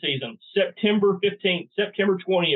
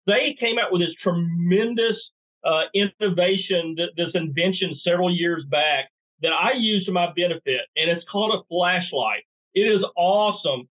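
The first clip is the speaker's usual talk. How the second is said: mock-impressed, playful sales pitch; sarcastic. Real, not acted. Hunter touting a flashlight as a tremendous invention, sarcastic. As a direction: lay on the praise with tongue in cheek. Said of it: "obviously you're being a little sarcastic".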